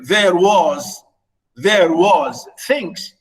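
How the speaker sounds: "there was things" dragged slowly to show the grammar; slow pointed reading. Shown as a demonstration. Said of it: "notice, of course, the English here".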